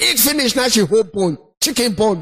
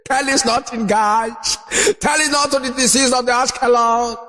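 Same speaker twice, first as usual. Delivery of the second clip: hammed-up scripture reading; mock sermon lament. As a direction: intone it like a solemn preacher. Mock biblical oration.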